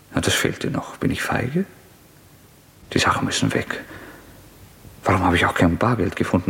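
muttering to himself, half-dazed; a murderer's restless brooding; feverish inner monologue. Acted. Rodja alone after the visit, feverish brooding monologue.

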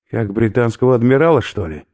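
he is about to throw up; queasy skinhead. Acted. Oberführer warns professor he will vomit, loud and gruff.

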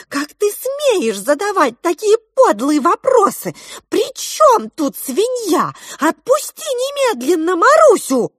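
high, loud outraged demands; a furious girl standing up to a monster; indignant girl. A narrator's reading. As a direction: defend your friend fiercely. Girl defies the crab.

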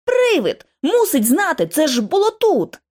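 high-pitched urgent outburst; excited, insistent cry; exclaiming. A narrator's reading. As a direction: blurt out the realization, pitch leaping up. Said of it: "вигукнула я".

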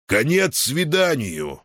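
high, slow barked announcement; announcing. A narrator's reading. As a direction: call the visit over. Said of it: "объявил комендант".

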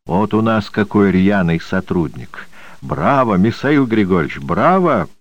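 lightly voiced old man with a lisp, sh for s; a hint of an old lisper. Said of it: "старческий шепелявый голос".

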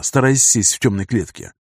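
plain reading voice

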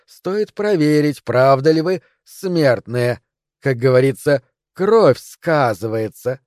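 slow, lightly hissed snake voice; slow hypnotic serpent hiss. Acted. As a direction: menace them slowly, like a serpent. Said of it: "прошипела змея".

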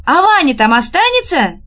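high-pitched anxious cry; alarmed shout. A narrator's reading. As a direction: shout in worry for him. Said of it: "закричала Нюра". (встревоженный крик)

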